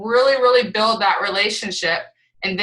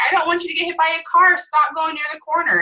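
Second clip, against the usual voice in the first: retold tearful yelling; 7 semitones higher, faster than usual. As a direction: imitate a distraught mother without really crying. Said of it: "starts yelling at her, and she's crying".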